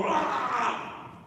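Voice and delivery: mock rally cheer. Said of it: "a bombastic speech and we all go".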